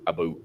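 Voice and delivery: about said like aboot; about with a rounded oo vowel; mock Canadian about. Shown as a demonstration. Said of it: "for you guys that you think we say it".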